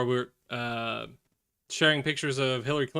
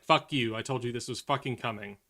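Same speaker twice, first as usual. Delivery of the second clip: mock rant at coworker. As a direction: pretend telling-off of a maga coworker. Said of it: "and be like".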